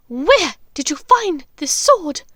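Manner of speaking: high, loud and slow witch voice; a shrill dark witch demanding answers; menacing witch. Acted. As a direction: loom over him with each word. Bellatrix interrogating.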